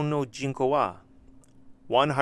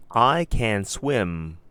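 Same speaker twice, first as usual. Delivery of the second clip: model answer; 4 dB louder, much slower than usual. Shown as a demonstration. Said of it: "They should answer it like this".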